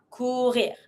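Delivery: "Courir" with the final French R sounded; pronounced R. Shown as a demonstration. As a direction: end "Courir" on an audible R. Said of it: "Pronounce the R".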